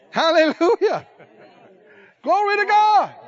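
high, loud cry of hallelujah and glory; exultant praise. Real, not acted. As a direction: shout praise at the peak of the sermon. Preacher's climax praise.

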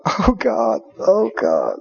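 low, soft mock lament; mock wailing. Relatives crying over the diagnosis, mock wailing low. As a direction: fake despair.

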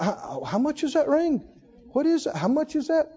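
quietly pry about the price; prying whisper-like question. Retold or imitated. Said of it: "nosy questioner".

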